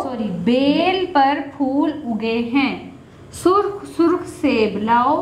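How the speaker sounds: paced choral reading lead; slow, steady read-aloud for the class; slow read-along. Shown as a demonstration. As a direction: read along slowly for children to repeat. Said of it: "मेरे साथ ऊंची आवाज से पढ़ेंगे".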